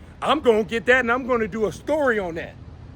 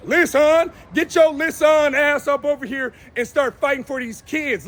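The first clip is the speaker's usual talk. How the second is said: calling out; 3 semitones higher than usual. Real, not acted. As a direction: shout him down to get up and fight. Calling out King Demetrius.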